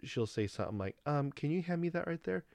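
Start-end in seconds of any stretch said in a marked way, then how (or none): 1.1-2.4 high-pitched entitled customer voice; put-on demanding shopper, high; imitated rude shopper. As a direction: mimic a presumptuous shopper, pitched well up. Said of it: "who's just rude".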